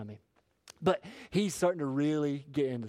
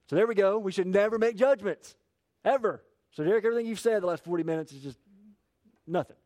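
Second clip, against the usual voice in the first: sarcastic; 4 semitones higher, 4 dB louder than usual. Acted. Sarcastic mock conclusion.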